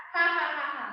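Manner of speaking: spoken ha ha ha; demo laugh. Shown as a demonstration. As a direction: say each ha as a light laugh.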